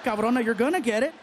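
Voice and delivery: loud, high-pitched outraged warning; hammed-up exasperated shout; mock threat. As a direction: yell a comic threat at a laughing girlfriend. Snapping at his laughing girlfriend.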